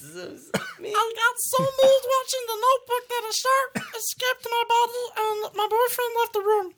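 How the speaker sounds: lightly voiced Muppet. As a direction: talk like a Muppet telling a story. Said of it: "more of, like, a Muppet".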